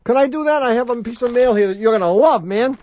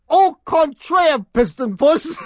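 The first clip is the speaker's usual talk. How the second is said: mock French; 6 semitones higher, slower than usual. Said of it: "Edward Holmes says".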